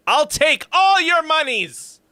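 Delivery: high, loud, slow villain shout; greedy villain. Pretend. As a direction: gloat like a greedy cartoon villain. Jokingly greedy over a donation.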